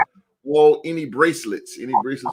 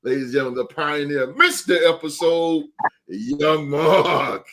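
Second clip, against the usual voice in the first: hype announcer. Acted. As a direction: introduce a title holder like a ring announcer. Host announces co-host like a champion.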